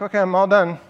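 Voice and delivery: a hint of an eager kid; lightly voiced child announcing done. Kid telling parent the piano is done, lightly voiced.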